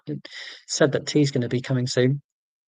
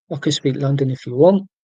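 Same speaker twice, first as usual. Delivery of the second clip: London accent; 4 dB louder than usual. Shown as a demonstration. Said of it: "why I'm doing the whole chicken head thrusting Londoner thing".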